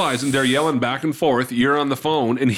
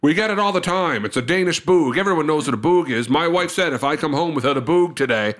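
indignant insistence. Retold or imitated. Father insisting to the baker, indignant. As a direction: insist as if everyone should know.

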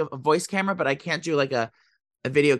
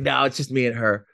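lower, lightly put-on straight-guy voice; 4 semitones lower than usual. Retelling answer to store guy, lowered straight voice. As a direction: play it straight, dropping the pitch. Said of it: "your straight voice".

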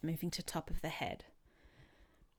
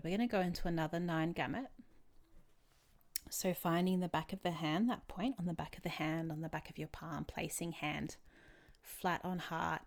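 calm, measured therapy guide; guided tapping session. Real, not acted. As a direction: guide them gently step by step.

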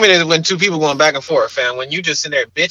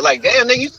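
ordinary delivery

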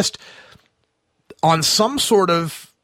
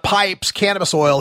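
usual speaking voice

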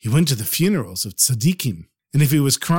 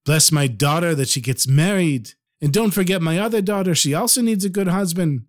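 higher-pitched pleading mothers; begging; 4 semitones higher than usual. Acted. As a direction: voice mothers imploring a holy man. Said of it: "all the mothers were begging".

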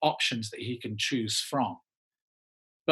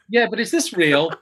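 raised, louder disbelief; incredulous; 8 semitones higher, 9 dB louder than usual. Retold or imitated. Actor questions an unexpected casting call, incredulous. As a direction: ask it loudly, high with disbelief.

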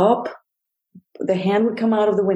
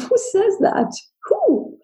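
stunned disbelief; slower than usual. Retold or imitated. Thinking to herself after the mailman's remark, high stunned disbelief. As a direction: pitch flies high in shocked disbelief.

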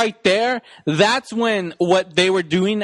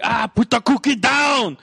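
mock Arnold shout. Quoting Arnold line.

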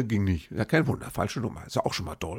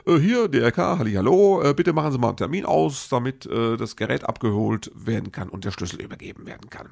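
mock official letter voice. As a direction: read the letter like a cheery clerk. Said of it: "Und da hieß es". (übertrieben fröhlicher Behördenton)

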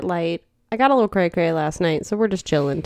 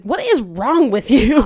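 incredulous coworker; 5 semitones higher, 4 dB louder, slower than usual. Retold or imitated. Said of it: "he was like".

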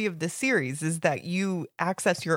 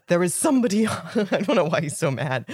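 deep Sirius voice; 3 semitones lower than usual. Acted. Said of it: "No more normal voice".

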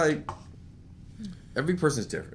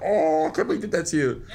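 laughing mock sympathy. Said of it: "It's just like".

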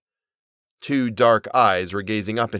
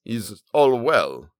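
gasped; much slower than usual. A narrator's reading. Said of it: "gasped the merchant".

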